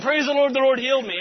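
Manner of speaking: high, loud shout of praise; a man who can see again, running and shouting praise; joyful shout. Retold or imitated. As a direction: cry it down the street.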